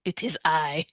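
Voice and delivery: slow, drawn-out vampire welcome; lightly voiced horror host vampire. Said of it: "I'm not actually the ancient vampire, Count Orlok".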